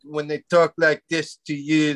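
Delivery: lightly put-on snotty French accent; mock French accent. Comic showing how the French sound, snotty French accent. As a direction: talk down with a French lilt. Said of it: "the French is pretty snotty".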